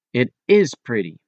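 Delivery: "is" emphasized to affirm; stress on IS. Shown as a demonstration. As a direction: lean on "is" as a contradiction. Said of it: "put an extra strong emphasis".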